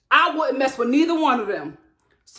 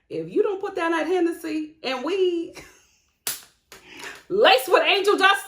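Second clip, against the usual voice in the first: high, amused telling-off through laughter; laughing mock scolding; 5 semitones higher than usual. Host telling off a man who's drunk and high, laughing. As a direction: scold him while cracking up.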